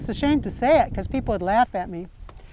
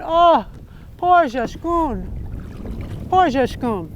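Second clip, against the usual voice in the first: very slow, drawn-out lament; grieving Nana Boozhoo; 2 semitones higher, much slower than usual. Acted. Nana Boozhoo mourning over Jashkun's body, mild slow lament. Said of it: "Nana Boozhoo sitting there going".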